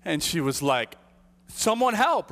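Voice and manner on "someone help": higher, urgent mock cry for help; retold call for help. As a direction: call out like a panicked mom. Mom calling out for help.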